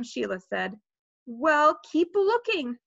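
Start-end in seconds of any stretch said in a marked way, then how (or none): 1.3-2.8 higher, mildly impatient call; mild yell. A narrator's reading. Brother keeps Sheila searching, mildly yelled. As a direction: call it out without really yelling. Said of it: "I yelled".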